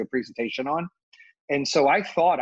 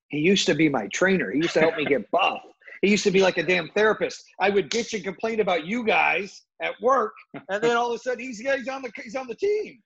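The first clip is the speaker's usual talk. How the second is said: excited; 5 semitones higher than usual. Retold or imitated. Retold quote, rising excited.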